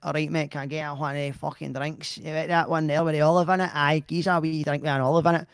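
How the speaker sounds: broad, casual Scottish patter; everyday Scottish accent. Acted. Husband showing how real Scots order drinks, broad Scottish accent. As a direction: lay on ordinary broad Scots. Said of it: "Scottish people are like".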